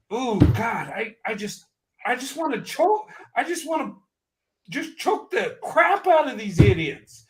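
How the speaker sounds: impassioned, exasperated outburst; getting emotional. Real, not acted. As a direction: vent it with real feeling, barely holding back frustration. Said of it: "I'm getting emotional on this".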